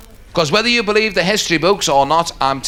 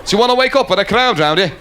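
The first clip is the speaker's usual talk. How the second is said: raised-pitch mock threat; indignant waiter; 6 semitones higher, faster than usual. Scouse waiter threatens the finger-snapping diner, mock indignant. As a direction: challenge him sharply, pitched up at the start.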